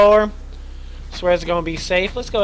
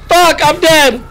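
high, loud groan of defeat; loud dismay; 8 semitones higher, 6 dB louder, slower than usual. Real, not acted. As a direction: cry out that it's over. Just died in game.

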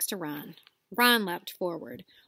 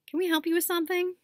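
higher, fast sarcastic jab; sarcastic boy; 10 semitones higher, 3 dB louder, faster than usual. Acted. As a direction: brush her off. Ron to Hermione.

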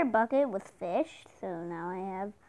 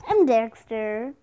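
big booming intro announcer; 2 semitones higher, 5 dB louder than usual. Acted. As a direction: announce the channel like a show host. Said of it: "that was my best announcer voice".

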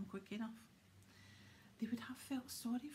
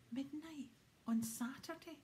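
hoarse; 5 semitones higher than usual. Acted. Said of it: "he said in a hoarse voice".

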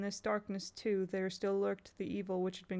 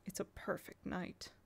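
softer, slow, hushed excitement; low and excited; 8 dB quieter than usual. Acted. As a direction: breathe it out low. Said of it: "Simon said low and excited".

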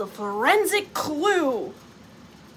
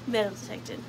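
deadpan answer; 4 semitones lower, 5 dB quieter, faster than usual. Acted. Deadpan answer to imagined searcher.

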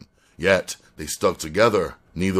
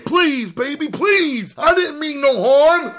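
very high, loud pleading; desperate screamed plea; screaming in pain; 6 dB louder than usual. A narrator's reading. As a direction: beg in a shrieked panic. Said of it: "screaming in pain".

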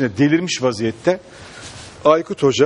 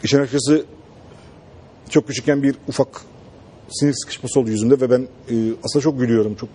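deadpan coach voice; much faster than usual. Retold or imitated. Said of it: "Aykut Hoca'yı gülerken görmedim".

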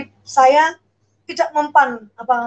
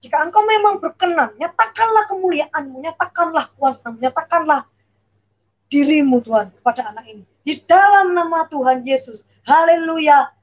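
fervent prayer; 3 semitones higher than usual. Retold or imitated. Pastor praying over the child, a retold, raised fervent prayer. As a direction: pray over the child, building to the amen. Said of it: "apa Bu Ripka ini bilang amin".

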